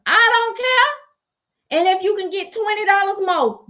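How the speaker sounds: very high, very slow I don't care; drawn-out high carefree line. Acted. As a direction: stretch it out, not caring. Telling sellers to go ahead.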